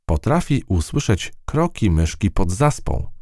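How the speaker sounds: plucky field mouse telling her tale. Acted. Field mouse character speaks.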